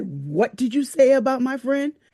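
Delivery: play-acted threatening, in-your-face, high and rising. Retelling a girl at a friend's event getting in her face: imitating a threatening confrontation. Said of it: "got up in my face like she was going to beat my ass".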